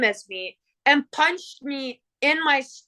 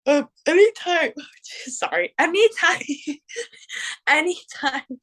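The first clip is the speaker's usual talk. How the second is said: laughing; 4 semitones higher than usual. Real, not acted. Laughing while retelling.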